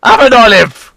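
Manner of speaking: a hint of a jolly old sea cook, laddie; lightly voiced pirate cook. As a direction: play the ship's cook, friendly and sly. Pirate cook offers olives.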